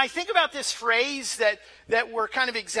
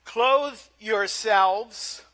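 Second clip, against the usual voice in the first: slow, deliberate Bible reading with long pauses; measured, emphatic pulpit reading; scripture reading; 5 dB louder, slower than usual. Real, not acted. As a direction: proclaim the text phrase by phrase. Reads the scripture text aloud.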